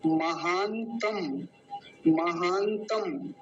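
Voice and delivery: महानतम slowly, with a long second "aa"; pronunciation demo. Shown as a demonstration. Teacher showing students the word महानतम, slow careful demo. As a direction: stretch महानतम out syllable by syllable. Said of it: "उच्चारण के विषय में आपको बता".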